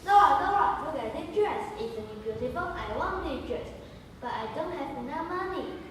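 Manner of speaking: high, loud excited call; calling excitedly. Acted. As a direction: gush over the dress. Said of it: "Jen is calling".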